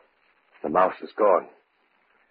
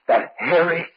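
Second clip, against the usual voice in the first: higher, slowed, horror rising; horrified outburst; 8 semitones higher, 3 dB louder, much slower than usual. Acted. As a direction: drag out the horror of the creature.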